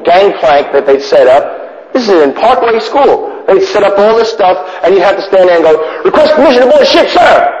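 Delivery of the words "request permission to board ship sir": put-on young cadet. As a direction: ask it like a stiff little cadet. Cadet asking to board.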